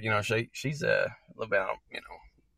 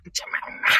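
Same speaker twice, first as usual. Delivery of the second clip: whispering. Pretend. Silly whispered word.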